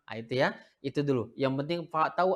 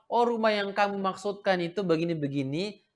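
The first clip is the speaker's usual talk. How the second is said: answering partner; 6 semitones higher than usual. Retold or imitated. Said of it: "Dan dijawab lagi bahwa".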